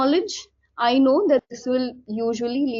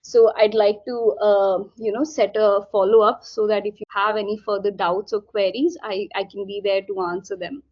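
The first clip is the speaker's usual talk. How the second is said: gentle wrap-up; 3 semitones lower than usual. Shown as a demonstration. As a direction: offer the follow-up gently. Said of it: "you can say that".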